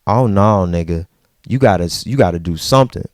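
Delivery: low, fast inner urging; mild mock panic. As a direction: rush the thought to yourself. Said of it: "my mind said".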